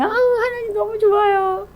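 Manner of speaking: high, mock-gushing squeal; hammed-up happy believer; gushing delight. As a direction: coo to God in exaggerated bliss. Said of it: "조금만 좋으면".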